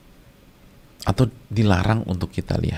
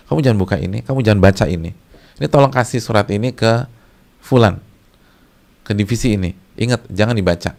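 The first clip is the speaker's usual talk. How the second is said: lightly acted boss, louder and firm; boss giving orders; 6 dB louder than usual. Boss warning an employee about a letter, mildly acted firm orders. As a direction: give instructions like a superior, lightly played. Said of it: "atasan kita yang bilang".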